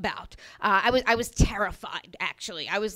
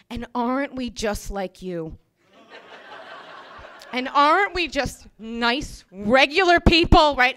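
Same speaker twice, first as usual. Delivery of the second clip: cringey ingratiating plea; 3 dB louder than usual. Retold or imitated. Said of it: "kinda cringe-worthy thing".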